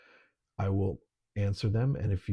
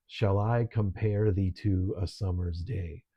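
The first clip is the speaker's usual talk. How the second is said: "Shall I compare thee to a summer's day" slowly, in metrical beats; iambic cadence; slower than usual. Shown as a demonstration. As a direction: let every second syllable of "Shall I compare thee to a summer's day" carry the beat. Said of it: "takes on its own kind of cadence".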